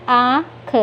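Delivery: आँख read without nasalization, syllables apart; plain oral vowel. Shown as a demonstration. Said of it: "जैसे आप साधारण लिखेंगे".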